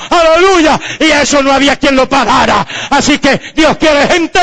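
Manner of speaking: high, shouted declarations to the congregation; full-force preaching. Real, not acted.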